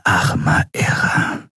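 slow, breathless whisper; stunned whisper. A narrator's reading. Shiar whispers over the dead Draxyl, stunned. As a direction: barely breathe the words in shock. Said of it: "flüsterte Shiar entgeistert".

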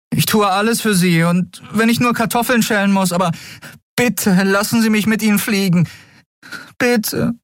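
put-on high, desperate boy's voice; pleading boy. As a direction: beg with everything you have. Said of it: "flehte der Junge".

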